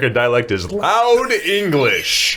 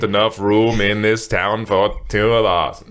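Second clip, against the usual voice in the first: cowboy showdown line. Pretend. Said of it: "sounds like a cowboy film".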